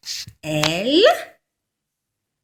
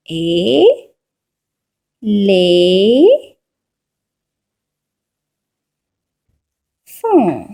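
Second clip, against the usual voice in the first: Et, Les, Font, stretched out with long pauses between; syllable by syllable; 4 dB louder, much slower than usual. Shown as a demonstration. Teacher writing out éléphant for pupils, syllable by syllable. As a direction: sound out éléphant very slowly in three pieces. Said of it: "La première syllabe".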